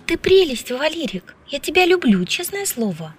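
high, light woman's voice with a smile; friendly declaration, lifted in pitch; cheerful, comradely affection. A narrator's reading. Woman to her friend after the kiss, cheerfully affectionate. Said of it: "сменилась весёлой товарищеской улыбкой".

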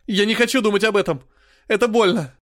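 high, loud tearful outburst; crying. A narrator's reading. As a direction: sob it out in pain. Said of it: "потом заплакал".

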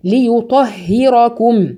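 ليطهركم slowly with a thin ه; light ha, slow. Shown as a demonstration. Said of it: "الهاء برضو رققيها". (ليطهركم بهاء مرققة ببطء)

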